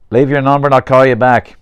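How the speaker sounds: a hint of a voicemail recording; recorded voicemail greeting. Daughter's phone message to her calling father, voicemail greeting.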